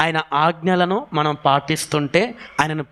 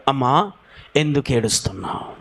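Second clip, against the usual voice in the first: gentle questioning; 5 semitones lower than usual. Acted. Angels question weeping woman.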